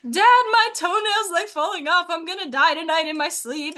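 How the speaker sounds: a hint of a frightened little boy; mock panicky little brother. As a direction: play the hypochondriac kid sure he's dying. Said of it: "He's like".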